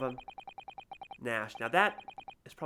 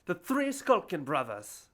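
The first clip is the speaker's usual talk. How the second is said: tag; 4 semitones higher, 4 dB louder, slower than usual. Acted. Announcing the trio.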